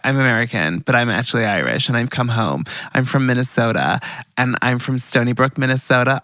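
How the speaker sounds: lightly put-on American persona; retelling in an American voice; American accent. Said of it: "I have an American persona now".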